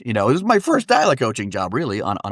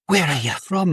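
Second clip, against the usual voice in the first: high-pitched nosy Scottish mum; imitated high Scottish question; Scottish mother; 6 semitones higher than usual. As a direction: quiz him as a little Scottish mother. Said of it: "And she's like".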